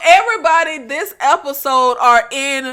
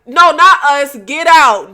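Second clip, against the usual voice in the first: movie quote; 7 dB louder than usual. Retold or imitated. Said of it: "when the lady's like".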